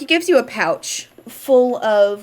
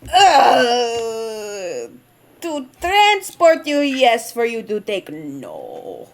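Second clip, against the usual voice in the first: NPC voice; 2 semitones higher, much slower than usual. Acted. Traveling NPC turning down the party, lightly accented. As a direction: give it a gentle Vistani lilt, yes then a firm no.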